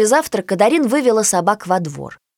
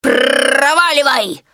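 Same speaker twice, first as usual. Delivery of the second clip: slow, higher, louder bark at the puppy; barked snarl; 6 semitones higher, 4 dB louder, much slower than usual. A narrator's reading. The mastiff drives Peggy off, slow barked snarl. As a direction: snap her away like a guard dog. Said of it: "рявкнул пёс".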